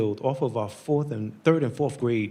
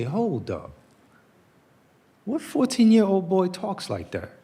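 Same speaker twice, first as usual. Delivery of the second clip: put-on pointed, raised voice on fourteen-year-old; retold indignant question; 6 semitones higher than usual. Speaker retelling what people should have asked, indignant. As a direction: stop them short: what fourteen-year-old talks like that. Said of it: "didn't pause for a moment and say".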